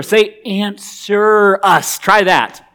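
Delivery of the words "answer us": "Answer us" spelled out very slowly, each word separate; over-articulated. Retold or imitated. Elijah coaching the prophets, slow mock articulation. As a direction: say "Answer us" slow and deliberate, mocking. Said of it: "try articulating it a little clearer".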